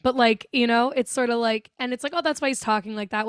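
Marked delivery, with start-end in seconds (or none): 2.1-3.2 casual first take. Retold or imitated.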